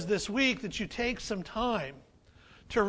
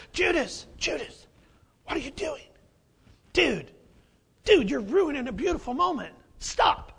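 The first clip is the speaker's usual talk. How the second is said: exasperated disciples; 4 semitones higher, 4 dB louder than usual. Retold or imitated. Disciples scolding Judas.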